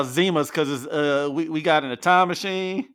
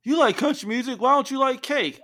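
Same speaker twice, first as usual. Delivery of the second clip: mock puzzled people; 8 semitones higher than usual. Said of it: "People are always just like".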